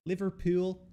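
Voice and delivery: high-pitched put-on Liverpudlian accent. Shown as a demonstration. Showing an American how Liverpool locals sound, Liverpudlian accent. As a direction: exaggerate the Liverpudlian, pitched right up. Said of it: "That's a Liverpudlian accent".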